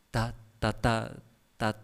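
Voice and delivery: stuttering ta ta ta; stutter demo. Shown as a demonstration. Preacher mimicking a husband who stutters. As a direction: mimic getting stuck on words.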